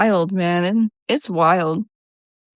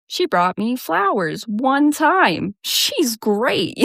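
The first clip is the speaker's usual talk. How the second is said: put-on swooning girlfriend; 5 semitones higher, much slower than usual.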